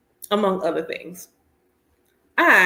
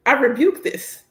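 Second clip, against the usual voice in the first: mock rebuke; 4 semitones higher than usual. Mock preaching rebuke of drivers.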